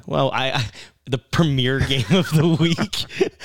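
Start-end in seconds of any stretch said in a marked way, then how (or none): 1.1-3.3 laughing echo. Real, not acted. Laughing echo of partner's sarcasm.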